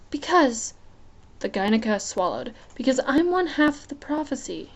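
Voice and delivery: pleading upward, swallowing fear; young queen voice. Acted. Gynica voiced again.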